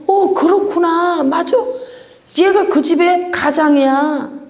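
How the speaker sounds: a slow, lifted aha; sudden realization. Retold or imitated. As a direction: let it dawn on you, drawn out.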